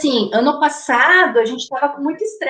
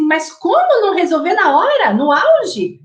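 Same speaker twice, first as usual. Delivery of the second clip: incredulous parent; 4 semitones higher than usual. Retold or imitated. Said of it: "tem gente que fica assim".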